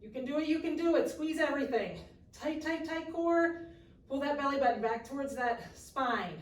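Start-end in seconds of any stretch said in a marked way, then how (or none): 0.0-3.6 high, loud coach encouragement; cheering on. Real, not acted. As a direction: push them through the last seconds. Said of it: "coach cheering through plank".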